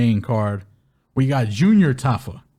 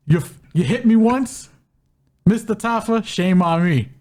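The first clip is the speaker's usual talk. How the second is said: raised, hyped trash-talk voice; mock trash talk; 5 semitones higher than usual. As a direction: call him out like a fighter.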